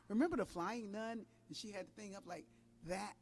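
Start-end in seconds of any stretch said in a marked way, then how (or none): 0.0-1.2 chuckling through the question, amused; laughing. Real, not acted. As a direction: let a laugh slip into the words. Amused recollection of the flying nun.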